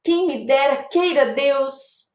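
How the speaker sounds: hopeful wish, slowing at the end; long for it, drawing out the close; acted yearning; wishful. Shown as a demonstration. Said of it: "Um desejo".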